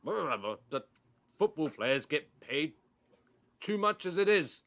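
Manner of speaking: high, loud whiny complaint, rising to the end; mock the pundit's whiny moan; whiny Jim White. Jim White mocked as a whining pundit on the radio.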